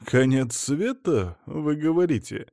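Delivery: a hint of a haughty older woman; mother-in-law arriving, a lightly voiced grand entrance; mother-in-law's voice.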